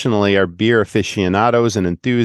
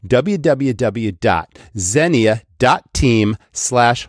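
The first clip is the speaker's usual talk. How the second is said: slow URL read; much slower than usual. Shown as a demonstration. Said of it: "Xenia is spelled".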